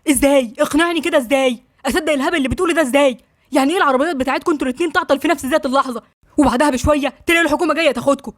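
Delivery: fast, indignant interrogation; mildly heated, rapid-fire tirade; angry disbelief. Acted. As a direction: fire off incredulous questions, pressing hard. Acted interrogation of suspected traitor.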